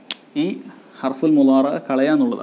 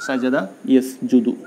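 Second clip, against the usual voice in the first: സജദ യസ്ജുദു spelled out very slowly, syllable by syllable; slow it right down so students can copy സജദ യസ്ജുദു; slow model reading; much slower than usual. Shown as a demonstration. Teacher models സജദ യസ്ജുദു for pupils, very slowly.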